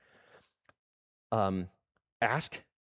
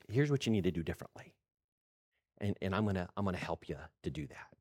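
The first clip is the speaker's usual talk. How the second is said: gentle reassurance; 4 semitones lower, 4 dB quieter, faster than usual. Retold or imitated. God gently reassuring, unlike yelling coaches.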